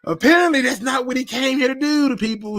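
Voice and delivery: high-pitched pretend wounded complaint; hammed-up hurt feelings; mock hurt. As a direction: play up being betrayed, voice pushed high. Mock hurt at being teased.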